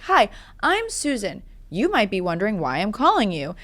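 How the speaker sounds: a hint of a robocall recording; robotic caller. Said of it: "it sounded so robotic".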